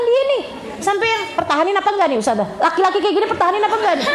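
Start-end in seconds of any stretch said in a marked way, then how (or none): 1.3-4.1 rushed, dismissive asking; mock arrogant wife; arrogant mock question. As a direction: toss the question off smugly. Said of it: "pertanyaannya aja udah menunjukkan adanya kearoganan".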